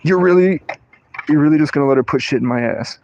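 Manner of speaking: high-pitched mock-outraged dad; hammed-up indignant dad voice; imitating dad. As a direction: sputter in disbelief as dad. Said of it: "And then my dad goes".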